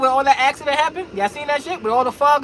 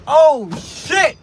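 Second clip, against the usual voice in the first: scared; 4 semitones higher, 4 dB louder than usual. Acted.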